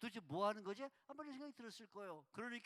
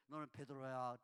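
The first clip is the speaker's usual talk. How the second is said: curt banmal; 9 semitones lower than usual. Shown as a demonstration. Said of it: "예수님은 베드로에".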